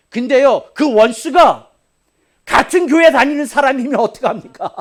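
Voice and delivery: loud, high, half-laughing challenge; student's loud question. Retold or imitated. Middle-schooler challenging his teacher, loud and laughing. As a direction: blurt out the question as a cheeky kid. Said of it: "저한테 이런 얘기를 하는 거예요".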